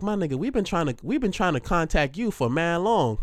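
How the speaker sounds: lightly voiced front desk, up in pitch; receptionist voice.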